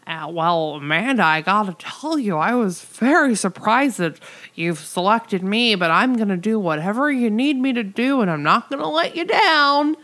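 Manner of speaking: put-on eager underling voice, rising at the end; earnest Billy. Billy pledging his allegiance to Amanda, hammed-up earnestness. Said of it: "Billy has to pledge his allegiance to her".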